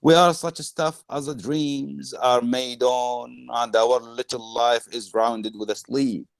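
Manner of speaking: slow, stretched-out recital; declaimed verse. Acted. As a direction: let each image ring out slowly. Reads key line of speech.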